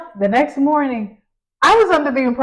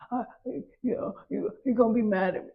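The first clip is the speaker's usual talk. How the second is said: put-on timid worried kid; 7 dB quieter than usual. Tearful son voiced by mother.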